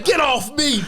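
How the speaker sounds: high laughing imitation; laughing mock protest. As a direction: act out the protest while laughing. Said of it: "He say".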